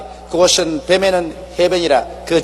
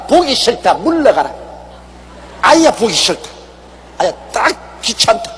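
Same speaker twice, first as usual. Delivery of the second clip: higher, scornful voice of God turning a grumbler away; God rejecting in disgust; 4 semitones higher than usual. Pretend. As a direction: push them off with a raised, fed-up voice. (불평하는 자를 물리치는 하나님, 높고 역겨워하는 목소리)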